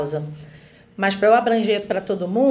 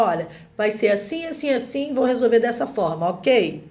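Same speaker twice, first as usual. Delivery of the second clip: measured parental authority, understated; calm authority. Shown as a demonstration. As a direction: state it as a settled decision, without raising your voice. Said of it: "Comunica a sua autoridade".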